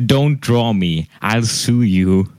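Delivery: slow, deliberate threat; grave, measured mock warning; completely serious. Art teacher warning a student not to draw him, completely serious. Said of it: "he was completely serious".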